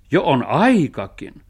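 loud, stretched-out cheer; shouted approval. A narrator's reading. Dog welcomes the treasure hunt, shouted. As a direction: call it out high and slow. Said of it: "huusi Musti".

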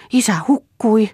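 put-on high, loud panicked child's call; a child's scared shout; frightened cry. A narrator's reading. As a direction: call out in alarm that father drowned. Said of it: "huusi Pia hädissänsä".

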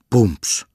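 whispered thud sound; book thump. Acted. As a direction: mimic a book hitting a forehead. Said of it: "pamahti silloin kirja otsaan".

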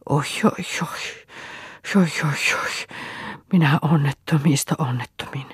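breathy, half-whispered wailing oi oi; sobbing lament. A narrator's reading. Grieving father wailing over his dead wife and child. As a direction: let the words break into weeping. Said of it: "valtava itku hyrskähti".

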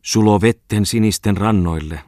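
student mimicking the drunk poet's verse; mocking imitation. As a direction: parody the poet's grand delivery. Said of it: "Hän matki".

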